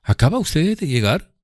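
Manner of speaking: a smug rival probing; voicing Drumley as a smug rival; Drumley's voice. A narrator's reading. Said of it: "preguntó él".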